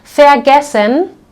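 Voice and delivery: Vergessen said slowly with ver as fer; ver prefix. Shown as a demonstration. Teacher showing learners the ver prefix. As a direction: open Vergessen with a clear fer. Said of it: "we will always pronounce this like ver".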